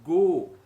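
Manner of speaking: Bo said loud and clear; syllable demo. Shown as a demonstration. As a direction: call out Bo. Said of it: "Se tivesse um gimel".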